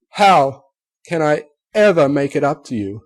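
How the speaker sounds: begging forgiveness, voice rising; anguished plea. A narrator's reading. Rarity pleading.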